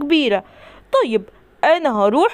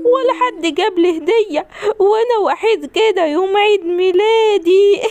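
fake crying; 3 semitones higher than usual. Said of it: "انت بتعيط في عيد ميلادك؟".

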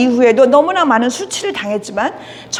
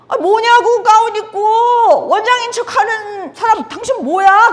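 put-on higher, slower, sneering drunk voice; mocking accusation; 6 semitones higher than usual. Drunk man jeering at the woman in a gown, sneering. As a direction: jeer at her as a fake.

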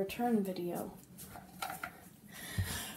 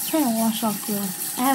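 muffled behind palm; speaking through hand; 8 dB louder than usual. Real, not acted. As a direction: hand over lips. Seen 4: Hand covers mouth early in the words, then moves away to point.

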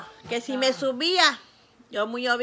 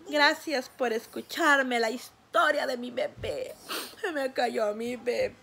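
tearful closing; 3 dB quieter, slower than usual. Real, not acted. Closing her story emotionally.

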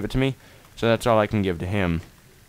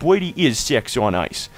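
imitating schoolmate; 3 semitones higher, slower than usual. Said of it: "he talks like that, like, seriously".

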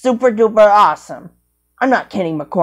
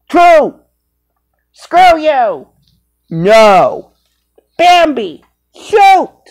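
squeaky puppet squabble; 5 semitones higher, 5 dB louder, much slower than usual. Acted.

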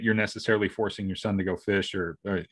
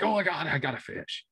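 excited kids imitated; 6 semitones higher, 4 dB quieter than usual. Father imitating kids who start catching fish, excited squeal held back. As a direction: mimic a thrilled kid in a small voice. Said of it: "they get all excited".

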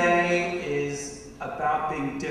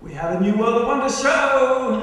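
excited announcement; 6 semitones higher, 8 dB louder than usual. Acted. Announces the new show.

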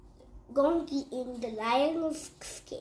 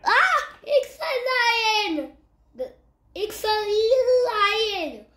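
high, loud frightened cry; panicked rabbit; 9 semitones higher, 7 dB louder than usual. Acted. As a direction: scream it out in panic.

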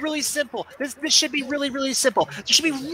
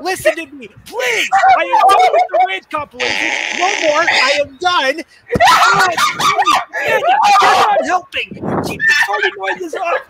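angry shouting; 5 semitones higher than usual. Real, not acted. Raging, demanding friends stop.

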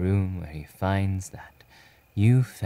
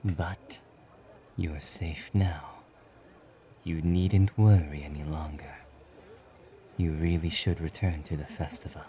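soft, hushed character voice; quietly reassure, then gently decline; low-key and restrained; reassuring reserved hero; 3 semitones lower, 5 dB quieter than usual. Acted.

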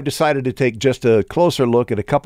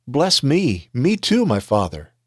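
a touch of a pleading cry, higher; 5 semitones higher, slower than usual. Acted. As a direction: beg for the blessing, voice lifting on me too. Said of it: "agonizing cry and wept bitterly".

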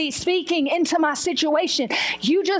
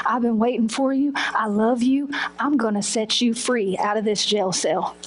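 voice of God; 6 semitones lower than usual. Retold or imitated. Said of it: "And he was saying".

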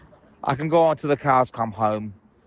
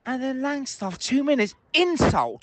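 pitched-up indignant burst; exasperated outburst; 11 semitones higher than usual. Real, not acted. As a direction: let the outrage lift your voice high. Furious fan ranting on phone-in.

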